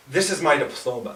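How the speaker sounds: soft, low, quietly proud announcement. Retold or imitated. Old woman proudly shows an invisible diploma, soft and proud. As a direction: present it like a treasured diploma. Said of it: "she says it with such pride".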